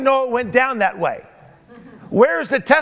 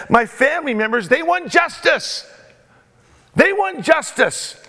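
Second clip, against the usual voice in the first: voiced widow pleading, pitched up; 5 semitones higher than usual. Preacher playing the widow begging King David, rising pitch. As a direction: beg the king for justice.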